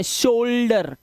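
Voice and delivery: शोल्डर with a pure ओ sound; correct pronunciation. Shown as a demonstration. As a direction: say शोल्डर as शो-ल्डर, plain ओ. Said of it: "शोल्डर बोलते हैं". (शोल्डर, सिर्फ ओ की आवाज़)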